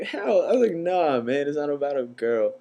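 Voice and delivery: retold protest, pitched high then easing down; high, emphatic mock protest of innocence; indignant denial. Nephew insisting to his cousin it isn't about a girl, indignant denial.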